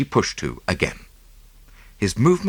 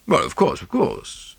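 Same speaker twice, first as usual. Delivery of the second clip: uncertain; 10 semitones higher than usual. A narrator's reading. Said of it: "said Mister Oppelson rather uncertainly".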